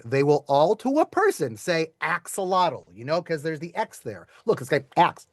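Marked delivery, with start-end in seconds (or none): 1.6-2.9 "axolotl" slowed, with a hard KS; drawn-out "axolotl", AK-suh-lah-tul; English pronunciation. Shown as a demonstration. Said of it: "If you ask any English speaker".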